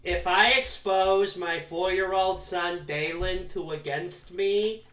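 slow, put-on Connecticut mom; suburban mom voice. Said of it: "half baby and half Boston voice".

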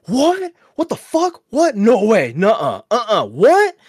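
high-pitched, incredulous mock outcry; imitated group disbelief. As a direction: act out a stunned crowd, jumping way up in pitch.

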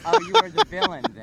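loud, high excited tease; excited shout. Real, not acted. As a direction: shout it out in delight.

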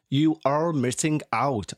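slow, accidental slip into Cornish; vaguely Cornish accent. Acted. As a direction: draw it out in a muddled Cornish accent. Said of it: "I don't know what accent that was".

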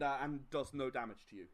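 ordinary talk, nothing marked

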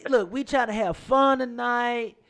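high, loud laughing protest; loud, high laughing denial. Real, not acted. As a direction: laugh while denying it. Laughing defense.

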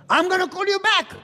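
rushed, high and loud brush-off; hurried husband. Retold or imitated. Busy husband hurrying to end his wife's call, high and loud. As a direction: say it fast to get off the phone.

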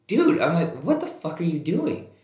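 high, loud call-out; alarmed retold shout; startled yell. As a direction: shout at a driver backing away. Yelling at reversing car.

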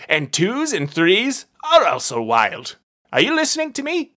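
blustering detective losing patience; demanding detective. Acted. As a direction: bark at the silent dealer. Brunt demands attention.

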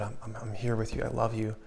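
a hushed, tender reassurance; gentle whisper. Retold or imitated. Preacher voicing the Lord to listeners, gentle and hushed. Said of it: "through a gentle whisper".

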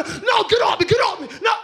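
a wise man losing his cool in a hammed-up scuffle; sermon parody of a grown man flailing to get someone off him; mock angry outburst.

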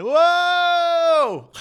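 a high, loud whoa of amazement; amazed shout. Pretend. Preacher imagining the healing, shouting loud amazement. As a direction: shout it like you just saw a miracle. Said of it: "I would be screaming".

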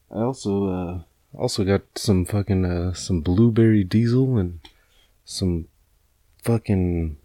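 stoned, losing the thread. Real, not acted. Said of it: "I'm sorry, I'm really baked".

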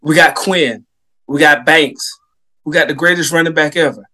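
hyped-up score call; excited. Real, not acted. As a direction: build the hype line by line.

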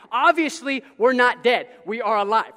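loud emphatic preacher line; loud preaching emphasis. Real, not acted. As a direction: call it out to the room. Preacher raises voice.

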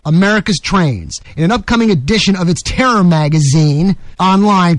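steady, projected reading voice; news article read. Acted. Host reading a Washington Times article on Al Qaeda, newsreader delivery. Reads a newspaper article aloud.

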